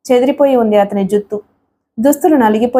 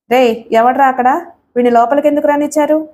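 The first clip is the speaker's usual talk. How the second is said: raised, quick call to the guards; shouting out toward his thugs, understated; mild mock yell; 3 semitones higher than usual. Villain calling his thugs outside, a mild yell. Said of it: "గొంతు చించుకుని అరిచాడు".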